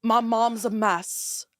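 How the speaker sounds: slow, lightly voiced dog. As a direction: speak as her little dog. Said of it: "everyone just saw my dog voice".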